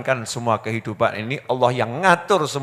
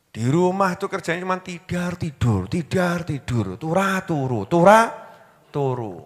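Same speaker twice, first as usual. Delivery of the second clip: mocking wife; 2 semitones higher, 4 dB quieter than usual. Wife mocks lazy husband.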